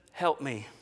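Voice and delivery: a hint of a defeated husband begging; pleading husband. Dejected husband's expression.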